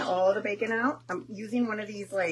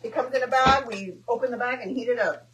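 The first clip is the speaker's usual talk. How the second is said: a lightly voiced breezy coworker, higher and louder; casual friend spilling kitchen secrets; friend's reply; 3 semitones higher, 5 dB louder than usual. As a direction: toss it off like a shrugging waitress. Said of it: "She's like".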